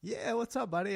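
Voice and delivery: high, upbeat mock greeting; retold friendly greeting.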